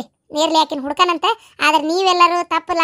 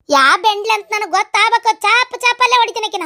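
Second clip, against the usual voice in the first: raised, indignant scolding pitch; angry threat; 3 semitones higher than usual. Acted. Woman vowing to beat whoever did the black magic, angry threat. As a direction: threaten the culprit with a beating. Acted threat against the unknown culprit.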